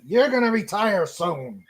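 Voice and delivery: playfully firm insistence; forceful demand. Pretend. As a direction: lay down the law, half-joking. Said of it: "grab him by the shirt and say".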